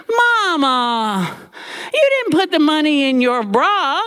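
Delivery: high, disbelieving scold; exasperated daughter. Retold or imitated. Aunt scolding her mother over the lost money, high disbelief.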